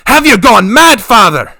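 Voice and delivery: high, loud outraged cry. Acted. Yilda cries out at her father's plan, outraged and loud. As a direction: shriek at him in disbelief. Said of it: "Yilda cried".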